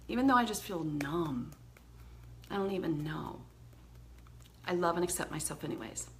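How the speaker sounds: low, soft, heavy-hearted affirmation; sad tapping script. Shown as a demonstration. Teacher guiding viewers through tapping, low and sad. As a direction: speak it like a weary confession. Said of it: "Then we do it again".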